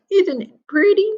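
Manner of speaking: put-on high, loud vain old lady; granny preening. A narrator's reading. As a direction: show off the nightcap as Granny. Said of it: "she said".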